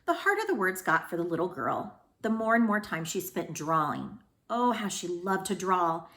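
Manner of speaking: put-on expressive read-aloud for kids; storybook reading. A narrator's reading. Teacher reads picture book to her students, expressively. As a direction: read it warmly to the class.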